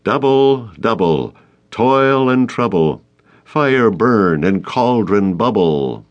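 slow, incantatory witches' chant; quoting Macbeth. Acted. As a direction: intone it like a spell, slowly. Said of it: "Nick stopped quoting".

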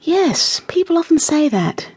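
placid, polite assent; mild agreement. A narrator's reading. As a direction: agree mildly, humouring the guest. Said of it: "Granny would agree mildly".

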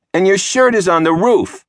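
a hint of a smug small sister; little sister. A narrator's reading. Little sister voiced by narrator.

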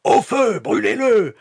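very high, loud shrieking; women's mob cry. A narrator's reading. Village women echoing the call to burn him, shrieking. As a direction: take up the cry wildly. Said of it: "Les autres femmes reprirent".

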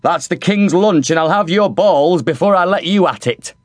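high, gruff cook's bark; head cook Bubble. A narrator's reading. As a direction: warn him off the king's food. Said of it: "said Bubble".

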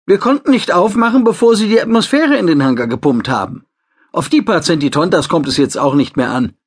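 quick reassuring assistant; female assistant voice. A narrator's reading. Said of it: "die Stimme seiner Assistentin".

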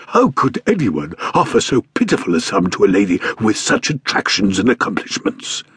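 airy, put-on gallant gentleman; lightly voiced stout man. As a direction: flatter her like a genial fat man. Stout man flattering governess.

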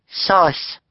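put-on high squeaky baby word; a toddler's single word. A narrator's reading. Sunny the baby pleading, high baby voice.

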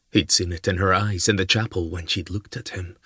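usual speaking voice

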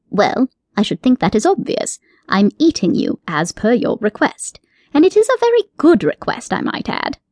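a fussy rabbit, pleased with himself; genteel rabbit with a sly wink in the voice; prim rabbit. Acted. Rabbit character voice.

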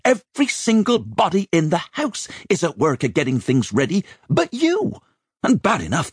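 put-on high, indignant older woman in full tirade; exasperated dragon of a mistress; scolding head chambermaid. A narrator's reading. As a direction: berate an idle boy, pitch climbing as you go. Rachel scolds Simon.

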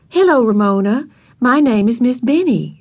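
put-on a young teacher greeting carefully; syllable by syllable. A narrator's reading. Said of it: "speaking each syllable distinctly".

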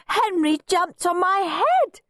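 high, slow, whiny complaint; snivelling. A narrator's reading. Squashed Peter tells on Henry, snivelling. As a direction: whine it like a tearful little tell-tale. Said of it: "snivelled a familiar voice".

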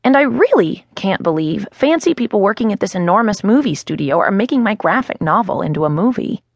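plain reading voice

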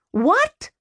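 shocked and rising, can't believe it. Acted. Brother refused by sister, a shocked high What.

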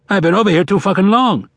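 high, exasperated comeback; testy, high-pitched grumble; irritated retort. A narrator's reading. Bearded man retorts about his accent.

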